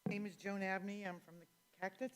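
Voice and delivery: faint voice far from the mic; speaking too softly, off-mic; barely audible. Real, not acted. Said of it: "I can barely hear you".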